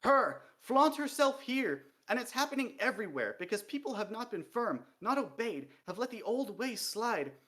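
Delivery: high, loud, furious rant near tears; venomous tirade, sobbing. A narrator's reading. Dee rants to the king about female dwarfs, venomous and sobbing. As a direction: spit every word with venom until it breaks. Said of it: "a word sprayed with so much venom".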